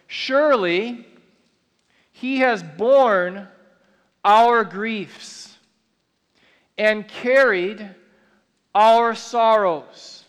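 slow, weighty reading of the verse with long pauses; solemn scripture reading. Acted. Preacher reads Isaiah to the church, slow and solemn. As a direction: lean into each phrase like a sacred text.

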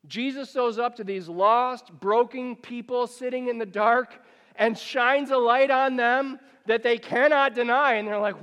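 loud, driving sermon delivery; full-force preaching. Acted. Pastor to congregation, loud and driving. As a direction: preach it out to the room.

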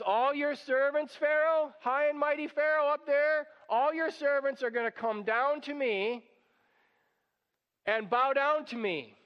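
Moses confronting Pharaoh. Retold or imitated. Moses defiantly telling Pharaoh his servants will bow. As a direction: call up to the high and mighty Pharaoh, a touch mocking. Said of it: "and Moses says".

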